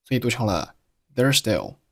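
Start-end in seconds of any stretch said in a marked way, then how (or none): 1.2-1.8 "there's still" run together with one s; dropped z. Shown as a demonstration. Teacher showing learners linked sounds, "there's still" with z dropped. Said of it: "there's结尾的z并没有发音".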